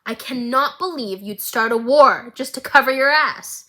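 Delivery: retold furious daughter; angry quote. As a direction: snap it at your mother. Mel furious at Ambessa.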